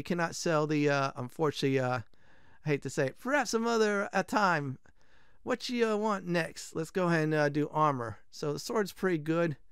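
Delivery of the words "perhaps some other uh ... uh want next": higher, halting mock-Italian; lightly put-on Italian blacksmith; bad Italian accent. Blacksmith asking the customer's next wish, bad Italian accent. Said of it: "this is gonna be very bad Italian accent".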